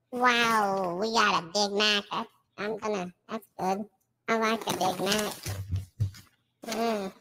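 filtered streamer voice. Acted. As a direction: hype it up through a filter. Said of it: "take the voice filter off".

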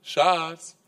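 Schatz said sweetly and lightly; a gentle opening Schatz. Retold or imitated. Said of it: "sie fängt an mit".

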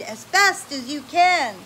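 loud, high, drawn-out rallying call; rally the kids to flee; urgent cry. Acted. Grand Dude urging the children away from the stampede, loud. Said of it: "cried Grand Dude".

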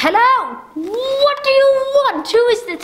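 high, shrill panicked demand; frantic terror. Acted. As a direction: scream the question at the unknown caller in fear. Terrified woman answers harassing calls.

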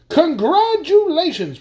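high, slow, loud congratulations; earl's toast. A narrator's reading. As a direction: stretch it out like a grand toast. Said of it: "proposed the Earl of Essence".

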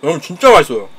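talking between bites; eating while speaking; mouth full, chewing. Real, not acted. Seen 0: Leans over food bowl, spoon in hand, mouth working throughout.

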